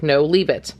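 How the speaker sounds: firm low "No, leave it" to the dog; firm command. Shown as a demonstration. Demonstrating the correction to viewers, firm low command. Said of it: "you quickly cover it back up like".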